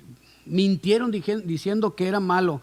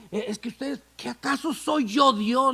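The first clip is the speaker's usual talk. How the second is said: a lightly voiced Joseph, tender and pleading; a hint of Joseph pleading with his brothers; mild voiced Joseph; 6 semitones higher than usual. José pleading with the brothers who wronged him, lightly voiced.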